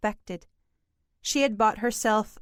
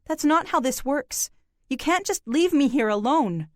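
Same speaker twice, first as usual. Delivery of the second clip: upset outburst; 5 semitones higher than usual. Acted. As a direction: burst out, afraid of being left. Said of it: "this outburst".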